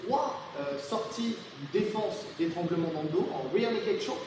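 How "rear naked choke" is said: rear naked choke said in a light English accent; a hint of an English accent on the borrowed phrase. Shown as a demonstration. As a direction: say the English term the English way, not the French way. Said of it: "Ça, c'est pour mon accent anglais".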